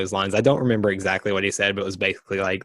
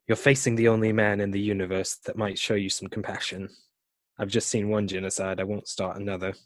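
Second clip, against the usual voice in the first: David Tennant impression; faster than usual. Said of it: "my really bad British slash David Tennant impression".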